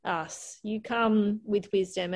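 slow sincere praise. Retold or imitated. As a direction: tell her gently, slowly. Sincere reply to daughter.

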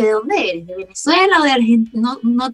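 puzzled guessing, pitch jumping up; baffled partygoer. Acted. Partygoers trying to place her accent, playfully baffled. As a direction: wonder aloud, playfully stumped.

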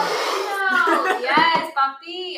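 put-on loud, slow, drawn-out Cholo accent. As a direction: stretch out papino in a Cholo accent. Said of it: "That's a Cholo accent".

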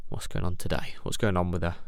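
low, soft thinking to himself; quiet inner thoughts. Retold or imitated. Weighing up what is wrong with his wife, quiet inner voice. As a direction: mull it over quietly in your head. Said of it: "look at my wife and think".

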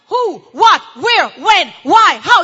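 mock grilling; rapid-fire questions. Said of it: "another question".

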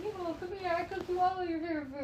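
mock Chinese accent, coaxing the son home; imitated Chinese mom accent. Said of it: "why she turned Chinese on me".

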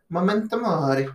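high, hammed-up Latin-Italian accent; attempted Latin accent, high-pitched; mock Latin accent. Shown as a demonstration. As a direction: put on a sing-out Italian-style accent, pitched well up. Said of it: "if you're talking in a Latin accent".

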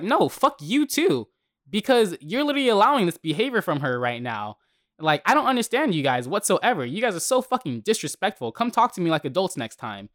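retold fury at the husband who backs his wife; retold telling off. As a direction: tell him off in retelling.

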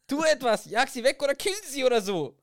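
high and loud, half laughing; high panicked plea. Acted. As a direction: shriek for help, laughing through it. Panicked plea about the mouse. (hohe, laute, lachende Panik)

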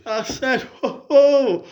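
high laughing oh. Acted. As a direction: laugh through the cry. Laughing caller.

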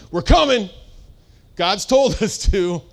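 a hint of bold Paul, slowing at the end; lightly voiced apostle, sure of himself; eager Paul announcing his arrival. Paul voiced, eager to enter town.

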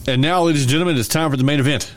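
announcer building up the main event; ringmaster. Pretend. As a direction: call it out like a showman.

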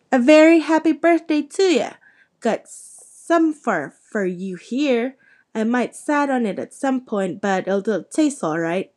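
a big friendly man wishing happy birthday; jolly giant. Acted. Giant gives Harry cake.

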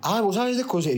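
high-pitched mock female voice; imitated interested woman. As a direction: play her perking up, pitched high. Man voices woman's interested reply. (imitando a la chica interesada, voz aguda)

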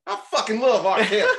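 loud, high Southern gushing; excited Southern superfan; Southern accent. Retold or imitated. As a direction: gush loudly in an imitated Southern accent. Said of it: "he had, like, a Southern accent".

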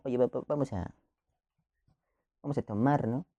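soft, unhurried invitation, a little stammered; calm and casual. Retold or imitated. Teen asks friend to drink, calm and quiet. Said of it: "Brandon lo dice acá como tranquilo".

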